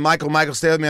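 mock nurse urging a fainting patient to stay awake; nurse's urgent plea. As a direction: call him back like a worried nurse. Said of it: "And she looks down".

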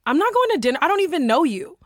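acted indignant refusal. Retelling her reply to a forward stranger, indignant.

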